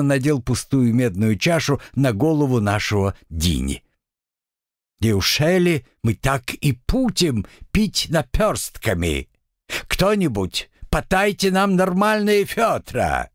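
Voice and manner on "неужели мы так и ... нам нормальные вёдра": put-on high, slow drunken devil. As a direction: boom it out like a tipsy demon. Devil demands bigger cups.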